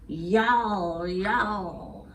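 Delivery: mock werewolf yowl, drawn out; werewolf howl. Werewolf cub saying good night, mock howl. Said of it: "they're roaring at each other".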